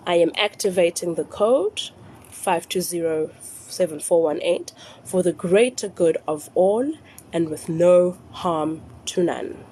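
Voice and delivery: slow, deliberate dictation; nice and slow. Shown as a demonstration. Repeating the phrase for followers to note down, slowly. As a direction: spell out each part slowly with pauses. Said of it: "say it nice and slow".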